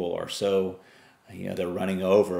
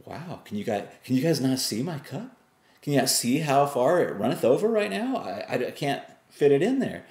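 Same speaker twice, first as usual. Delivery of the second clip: overwhelmed dad; 6 semitones higher than usual. Retold or imitated. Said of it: "tired dad answers kids".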